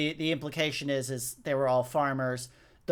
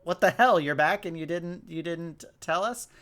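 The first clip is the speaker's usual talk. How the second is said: incredulous quote; 2 semitones higher than usual. Retold or imitated. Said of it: "And they're like".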